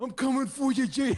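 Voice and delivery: terrible wrestler voice, very high and raspy. Call out Jay in front of the others, in a terrible Macho Man Randy Savage impression. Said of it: "I was gonna do a fucking terrible Randy Macho Man".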